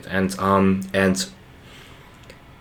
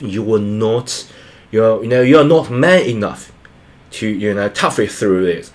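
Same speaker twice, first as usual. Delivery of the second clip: mildly imitating a condescending parent; lightly mocked dismissive lecture to someone struggling. Parent or friend brushing off someone's hardship, condescending. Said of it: "who is so condescending".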